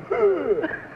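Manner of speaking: breathy wheezing puff, mimicking the contestant; a mock wheeze in place of a blow; imitated wheeze. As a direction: wheeze out like a leaky blower. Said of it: "he wheezes instead of blowing".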